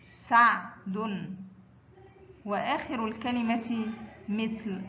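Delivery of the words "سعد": سعد very slow, split after سع; sukun mid-word. Shown as a demonstration. Teacher models ain mid-word, سعد very slow and split. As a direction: stretch سعد, resting on the vowelless ع. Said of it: "وسط الكلمة مثل".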